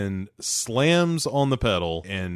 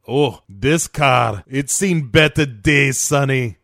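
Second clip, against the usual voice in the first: louder mock-Scottish crime-boss voice; Calitri; 2 semitones higher, 6 dB louder, slower than usual. Calitri greets Cage outside, Scottish accent. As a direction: put on a Scottish accent and open slowly. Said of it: "why he has a Scottish accent".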